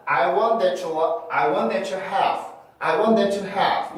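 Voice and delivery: "that you" fused into "tha-chew"; linked ch sound. Shown as a demonstration. Teacher showing the first method, joined ch sound. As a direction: join "that you" with a ch before "have". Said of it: "이렇게 붙여서 to처럼 발음을".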